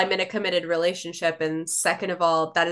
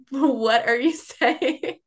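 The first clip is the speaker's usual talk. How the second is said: drawn-out, higher baffled question; slow, laughing disbelief; 5 semitones higher, much slower than usual. Retold or imitated. Acts out failing to understand UK show.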